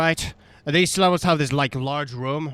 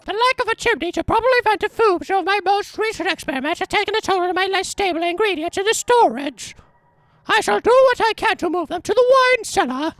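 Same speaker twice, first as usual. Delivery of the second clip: much higher reading voice; high, strained character voice; 3 dB louder than usual. Acted. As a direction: read the letter in a high voice. Reads a note in voice.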